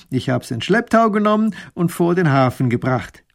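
a lightly voiced cocky sea captain; sly grinning captain. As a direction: tell it with a smug grin. Kapitän erzählt grinsend. (leicht gesprochener frecher Kapitän)

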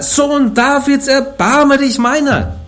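very high, slow, desperate plea. A narrator's reading. Blind man shouts over the rebuking crowd, high desperate plea. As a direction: stretch it out like a last desperate cry. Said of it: "Er aber schrie umso mehr".

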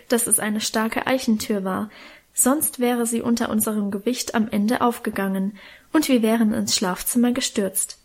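ordinary delivery, nothing marked

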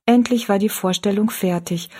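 ordinary delivery

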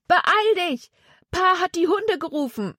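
put-on high young voice, urgent warning; a boy pressing his friend to run; Jonathan, urgent. A narrator's reading. Jonathan warns Zack the dogs are coming, urgent.

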